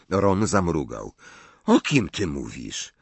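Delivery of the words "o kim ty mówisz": low, blank "O kim ty mówisz?"; low puzzled question. A narrator's reading. Confused boy asking his friend, low puzzled question. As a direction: ask it low, without pushing any word.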